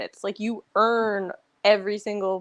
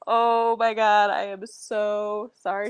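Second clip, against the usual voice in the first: slow apology; slower than usual. Retold or imitated. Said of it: "I was just like".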